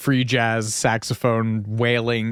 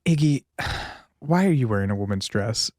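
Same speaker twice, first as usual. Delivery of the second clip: weary sigh, understated exasperation; mildly exasperated retelling; mock exasperation. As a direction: imitate a fed-up manager with a sigh. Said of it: "just very exasperatedly".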